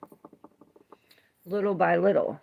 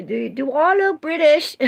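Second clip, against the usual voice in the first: higher and louder, laughing indignation; amused disbelief; 8 semitones higher, 7 dB louder than usual. Real, not acted. Reacting to a viewer calling her British, amused. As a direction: protest it, half laughing.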